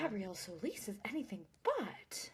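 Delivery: hushed, breathless whisper of awe. Retold or imitated. Podcast host whispering in awe at Gabby. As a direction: whisper it like a shocked fan.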